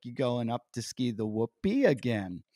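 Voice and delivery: lightly imitated ski bro, pitch swooping up; Pauly Shore. Champion skier amazed at injured teen returning, light impression. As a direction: give a hint of a celebrity impression. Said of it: "he sounded just like Pauly Shore".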